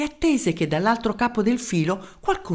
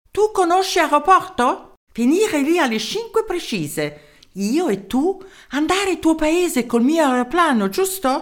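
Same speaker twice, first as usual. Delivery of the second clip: a tiny German professor in broken Italian; small German-accented voice; 9 semitones higher, 3 dB louder than usual. Acted. Professor answering the mayor's call, small German-accented voice. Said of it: "Una vocina dal tipico accento tedesco".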